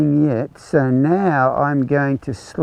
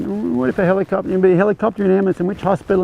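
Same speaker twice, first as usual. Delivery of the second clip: spiralling worry; 6 semitones higher, faster than usual. Retold or imitated. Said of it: "letting you go down that".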